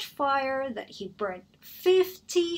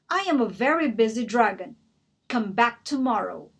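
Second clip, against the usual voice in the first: angry dragon; 3 semitones higher, 9 dB louder than usual. Acted. The dragon yelling at Elizabeth to go away, roaring. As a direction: shout her away from the door.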